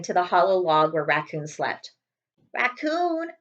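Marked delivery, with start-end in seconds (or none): 2.5-3.3 lightly voiced small hedgehog pleading; a hint of a timid hedgehog asking again. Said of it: "he asked".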